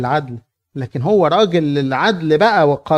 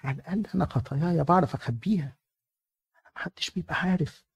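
sly boast; 7 dB quieter than usual. Acted. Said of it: "هو بيدعي، بيقول لك".

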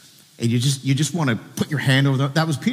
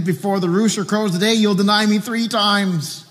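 high, insistent pronouncement, slowing at the end; solemn raised prediction; 8 semitones higher than usual. Acted. Jesus warning Peter of his denial, high insistent pronouncement.

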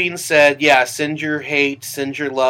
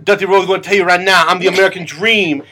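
lightly done seventies pro wrestler promo; Dusty Rhodes wrestling promo. Retold or imitated. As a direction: cut a wrestling promo, half serious. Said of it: "weird impression of a pro wrestler".

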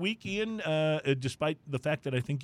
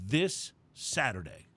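monster truck ad; slower than usual. Pretend. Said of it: "keep using, like, the monster truck voice".

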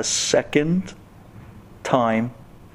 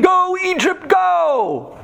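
mock cheering scream; much slower than usual. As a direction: cheer them on like a rowdy fan. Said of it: "they were screaming".

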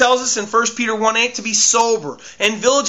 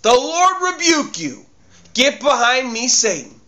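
forceful rebuke; 4 semitones higher than usual. Shown as a demonstration. Preacher shows the church how to rebuke Satan, forcefully. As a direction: order the devil away with full authority. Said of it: "Don't get into a big theological battle".

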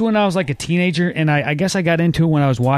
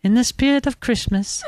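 mock sentimental; 8 semitones higher than usual.

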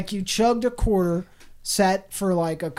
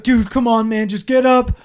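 urging call; 4 semitones higher, 6 dB louder than usual. Retold or imitated. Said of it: "Be like".

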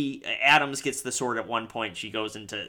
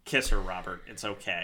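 mock pained; 4 semitones lower than usual. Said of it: "a singer cuts in and is like".

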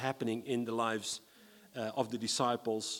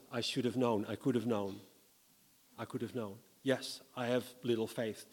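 quiet self-reproach; 4 semitones lower, 6 dB quieter than usual. Acted. Peter berating himself, quietly.

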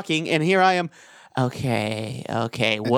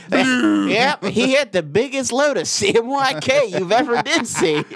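laughing; 9 semitones higher, 3 dB louder than usual. Acted. Hillbilly tall tale laughing.

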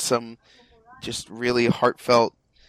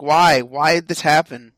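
louder, mildly anguished plea; mock dismay; 3 semitones higher, 5 dB louder than usual. Reader lamenting the bad manga adaptation, mock dismay. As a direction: protest it loudly, as if let down.

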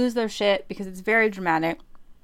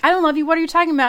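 higher, louder protesting heroine; exaggerated higher soprano denial; mock denial; 6 semitones higher, 5 dB louder, much faster than usual. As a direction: play a hammed-up denial. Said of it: "And she's like".

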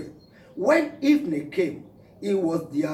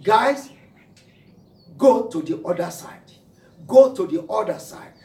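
Jesus instructing disciples; 3 semitones higher, 6 dB louder than usual. Acted. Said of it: "told his disciples".

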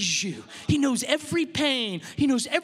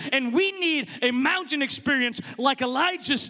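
raised, driving preacher voice; forceful preaching; 4 semitones higher than usual. Real, not acted. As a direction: press it home to the congregation.

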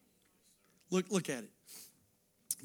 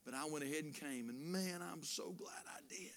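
softly voiced, much quieter quote; confiding churchgoer; 8 dB quieter than usual. Churchgoer admits to preacher he nearly stayed home, soft confiding. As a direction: confide it gently, almost under the breath. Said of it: "people come and told me".

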